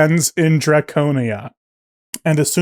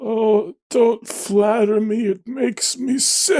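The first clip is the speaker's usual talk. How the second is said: slow, lightly voiced frail man; a hint of a sickly old man; feeble dying man; 5 semitones higher, slower than usual. The dying man answers flattery.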